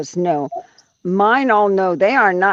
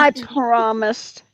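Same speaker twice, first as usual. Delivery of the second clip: teasing; 4 semitones higher, slower than usual. Pretend. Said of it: "Why are you teasing?".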